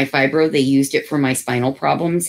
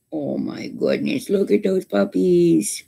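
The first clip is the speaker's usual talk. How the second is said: gushing; 6 semitones higher, slower than usual. Real, not acted. Gushing over puppies.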